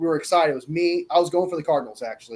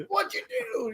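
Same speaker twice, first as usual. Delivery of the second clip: retold outrage; 5 dB quieter, slower than usual. Retelling outrage at friend.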